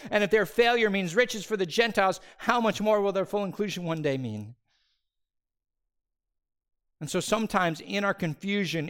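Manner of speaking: high, loud fervent preaching; full-force preaching. Acted. Preacher urging the congregation to trust God, fervent loud preaching. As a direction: preach it out with conviction.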